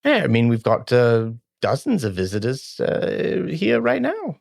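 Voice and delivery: lightly voiced halfling innkeeper; hesitant comic innkeeper with fillers; Sylveth. Innkeeper vaguely answering about visitors, lightly put-on voice. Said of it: "what does Sylveth sound like".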